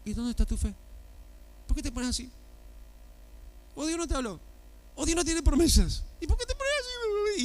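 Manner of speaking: rising, high, scolding questions; challenging questions. Acted. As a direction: push back on the doubter, pitch climbing. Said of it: "yo te pregunto".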